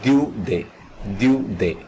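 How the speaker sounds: Daudet said as "dyoo-day"; French pronunciation. Shown as a demonstration. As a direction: say Daudet in two clear syllables, dyoo-day. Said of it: "This is pronounced as Daudet".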